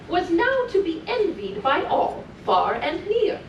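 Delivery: put-on lilting read-aloud for small children; sing-song storytelling voice; storybook reading. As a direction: read it like a bedtime story to little ones. Reading continues.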